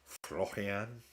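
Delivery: "Florian" with a throaty French r, rising; French-accented "Florian", guttural r and nasal ending. Shown as a demonstration. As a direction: try "Florian" the French way, as a question. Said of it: "in a French accent".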